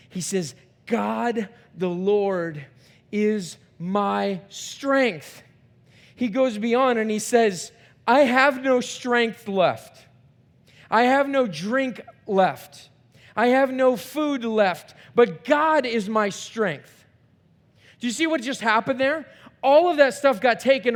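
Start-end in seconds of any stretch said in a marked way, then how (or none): 0.9-5.4 very slow, each word weighed; slow solemn quote. Shown as a demonstration. Preacher quoting the psalmist, slow and solemn. 8.1-17.1 slow, firm, stressed declaration. Acted. Psalmist declaring loss, slow firm declaration.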